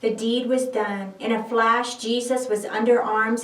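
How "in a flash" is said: ordinary delivery, nothing marked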